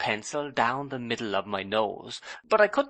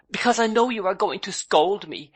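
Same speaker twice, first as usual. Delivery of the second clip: put-on high, pleading young wife, a touch of fear; lightly voiced girlish wife, pitiful; piteous voice; 10 semitones higher, 5 dB louder than usual. A narrator's reading. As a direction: beg him not to scold, mildly piteous. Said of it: "exclaimed Dora in a piteous voice".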